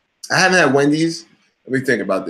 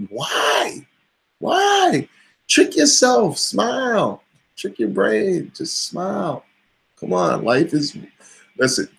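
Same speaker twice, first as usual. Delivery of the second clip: pep talk; 7 semitones higher than usual. Retold or imitated. Motivational pep talk to coworker.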